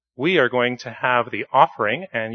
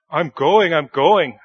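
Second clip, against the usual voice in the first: higher, louder hammed-up shout; 4 semitones higher, 4 dB louder, slower than usual. Jonah answers God's command with a hammed-up shout. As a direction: shout it back, fed up and giving in. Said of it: "shouted Jonah".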